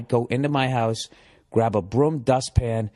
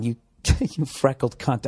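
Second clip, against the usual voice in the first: laughing retelling. Retold or imitated. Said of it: "Just yelling".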